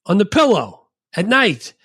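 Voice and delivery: hammed-up movie impression; goofy movie voice. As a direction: fumble the words like the dim character. Acting out movie scene.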